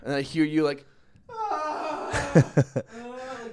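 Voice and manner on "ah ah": high mock pained cry through a laugh; laughing imitation of a scream of pain. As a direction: play the friend's yelp in pain, laughing as you mimic it.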